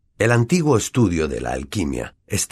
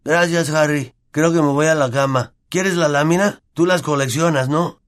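Neville's voice; 8 semitones higher, 3 dB louder than usual. Acted. Neville thanks Harry.

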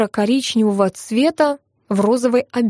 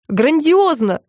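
higher-pitched cry of praise; excited cry; 6 semitones higher, slower than usual. A narrator's reading. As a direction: exclaim it keenly without real shouting. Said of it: "закричала Нина". (восторженный, негромкий возглас)

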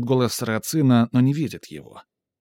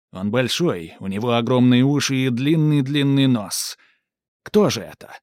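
loud, teasing ringmaster; showman riddle; 4 dB louder than usual. Acted. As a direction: draw out the riddle for kids. Сарацин загадывает загадку. (загадочный конферансье)

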